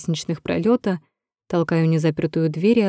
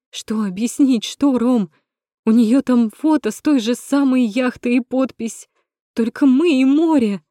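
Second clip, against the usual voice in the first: high, loud accusing yell; angry cry; 6 semitones higher, 4 dB louder than usual. Acted. Natasha yells at Rom about the yacht photo. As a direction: throw the words at him.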